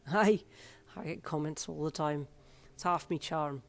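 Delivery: friendly piercer with an Irish lilt; Irish accent. Acted. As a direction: brag lightly in an Irish accent. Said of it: "Can I borrow your accent".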